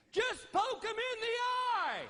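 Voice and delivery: high-pitched yelled command; urgent, high holler; retold scream. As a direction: scream it across the water as the boat driver. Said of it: "screams at me".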